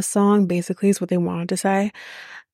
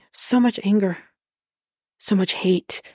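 mock slam poetry. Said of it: "he did this like he was at a poetry slam".

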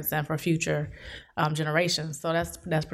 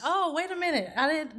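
startled; 8 semitones higher than usual. Retold or imitated.

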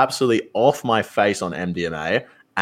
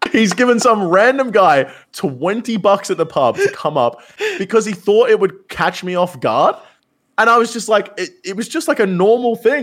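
high, laughing disbelief; 11 semitones higher, 4 dB louder than usual. Real, not acted. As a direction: talk through the giggles. Laughing over the prank reveal.

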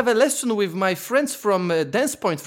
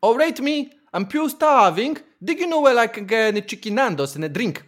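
attempted Scottish accent; 3 semitones higher than usual. Contestant performs accent for the guessers, attempted Scottish. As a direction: have an unconvincing go at a Scottish accent. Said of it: "that was Scottish".

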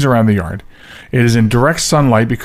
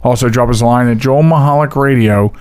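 all in one breath. Shown as a demonstration. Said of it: "trying to get that whole line out in one breath".

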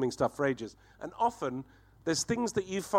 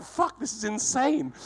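excited amazement; 9 semitones higher, slower than usual. Retold or imitated. Retold amazement at the find.

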